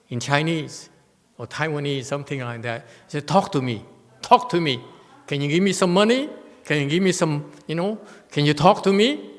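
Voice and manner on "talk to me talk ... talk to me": loud, high pestering drunk, lightly voiced; drunk beggar. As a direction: nag like a drunk asking for money. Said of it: "Taiwanese drunk".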